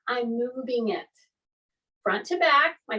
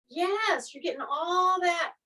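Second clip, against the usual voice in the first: cheering; 4 semitones higher than usual. Real, not acted. Coach praising the class.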